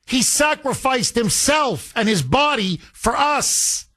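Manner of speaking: real indignation breaking through; heated. Real, not acted. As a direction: let the outrage build as you defend him. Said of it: "I'm getting very heated about this".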